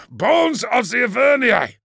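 loud, high cry of astonishment; shouted oath. Acted. Exclamation amid the battle.

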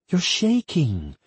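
high, slow, concerned. Acted. Woman notices partner trembling, concerned. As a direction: notice it slowly, voice lifted high.

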